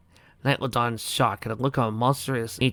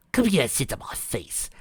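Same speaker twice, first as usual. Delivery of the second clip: taunting whisper; 2 semitones higher than usual. Acted. Melody taunts Twilight.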